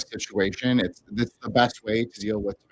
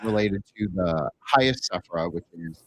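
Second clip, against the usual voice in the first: muffled mic. Real, not acted. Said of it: "It's modulating".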